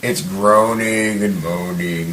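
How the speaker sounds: drawn-out, slow mock moan; mock groaning. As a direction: stretch the words into a half-sung groan. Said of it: "not gonna do an impression of it, but it's basically just, like".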